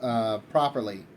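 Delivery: halting, unsure excuse with filler pauses; floundering. Acted. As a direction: fumble for words, mildly flustered. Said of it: "he's, like, kind of floundering".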